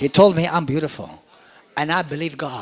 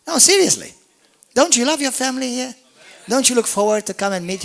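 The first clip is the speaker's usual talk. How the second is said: much higher, louder appeal; high excited; 9 semitones higher, 4 dB louder, faster than usual. Real, not acted. Pastor pleading with his church, high and loud. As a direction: press them eagerly.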